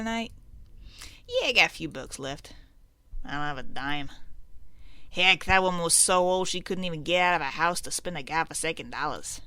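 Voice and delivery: lightly voiced old-time gangsters; a hint of scheming ne'er-do-well; bantering crooks. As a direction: trade barbs like small-time crooks, lightly. Voices crooks bantering over beer money.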